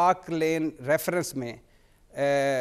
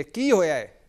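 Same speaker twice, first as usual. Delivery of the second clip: poem recitation; 2 semitones higher, 3 dB louder than usual. Acted. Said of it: "Munnu भाई की एक नज़म है".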